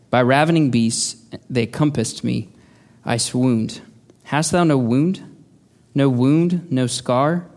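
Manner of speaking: slow, solemn recitation of verse; poem reading. Shown as a demonstration. Preacher reads Amy Carmichael's poem to the congregation, slow and solemn. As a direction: read it slowly, weighing each line. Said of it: "let me read you this poem".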